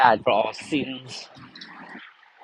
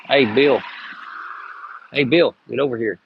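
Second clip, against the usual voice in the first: raised call to Bill. Real, not acted. Calling out to Bill.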